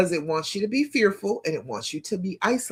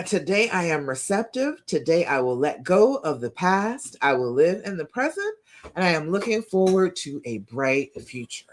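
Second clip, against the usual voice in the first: affirmation reread. Shown as a demonstration.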